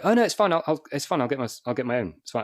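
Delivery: high, eager polite refusal. Retold or imitated. New star politely turning down a runner's tea offer. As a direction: insist brightly that you're fine.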